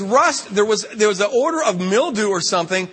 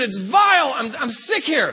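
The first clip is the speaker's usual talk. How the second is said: disgusted cry; 6 semitones higher than usual. Retold or imitated. Arguing with nephew in bathroom.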